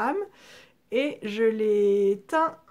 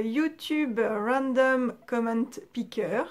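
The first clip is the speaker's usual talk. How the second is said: English accent; slower than usual. Real, not acted. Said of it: "mon super accent anglais est toujours là".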